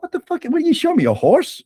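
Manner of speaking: high, incredulous what the fuck; half-laughing shock at the absurd offer; retold outrage at being sold a date; shocked disbelief. Retelling his shocked reaction.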